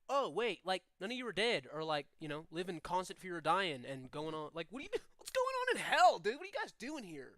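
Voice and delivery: chatty surfer-dude demon, pitch swooping up; Crush from Finding Nemo. Acted. Demon surprised by living visitors, lightly voiced surfer dude. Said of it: "sound like Crush from Finding Nemo".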